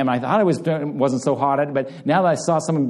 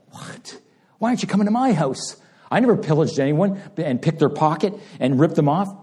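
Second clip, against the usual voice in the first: indignant crowd; 2 semitones higher than usual. Retold or imitated. Pastor mimicking the crowd's jealous grumbling, mock indignant. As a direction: whine like a jealous onlooker.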